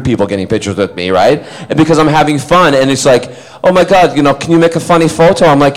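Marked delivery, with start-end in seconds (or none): 3.6-5.4 higher-pitched eager fan request; put-on gushing excitement; excited fan. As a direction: imitate a keen fan asking a favour. Excited fans requesting a photo.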